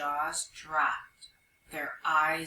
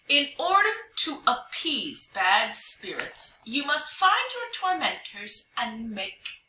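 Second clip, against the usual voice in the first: raised, drawn-out ghostly pronouncement; authoritative call; 4 semitones higher, slower than usual. Acted. Young hyena as spirit setting the animals a task, with authority. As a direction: proclaim it like a commanding spirit. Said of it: "called out with authority".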